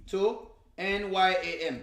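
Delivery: slow letter-by-letter spelling of "N Y A M". Shown as a demonstration. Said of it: "May I teach you some patois?".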